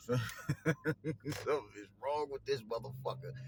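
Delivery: slow, laughing through the words; laughing disbelief. Real, not acted. Repeats line, then laughs.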